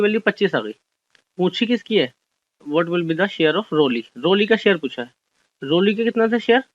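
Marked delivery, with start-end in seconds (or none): 2.6-4.0 very slow, word-by-word reading of the question. Shown as a demonstration. Teacher reading an exam question to the class, slow and deliberate. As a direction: read it out slowly so students can follow.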